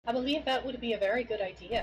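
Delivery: put-on Irish accent. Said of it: "let's get right into the Irish accent".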